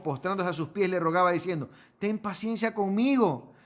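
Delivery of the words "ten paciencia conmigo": pleading servant. Acted. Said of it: "Las mismas palabras de él".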